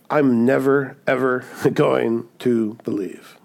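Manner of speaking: "never" and "ever" set apart, slow and deliberate; emphatic refusal. Retold or imitated. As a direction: spell out "never, ever" word by word. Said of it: "He's just emphatically stating".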